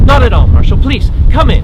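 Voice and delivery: loud, polite invitation; shouting over din. Acted. Hostess invites marshal inside, shouting over supporters outside. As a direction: call out courteously over the noise. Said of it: "I can barely hear her over the din".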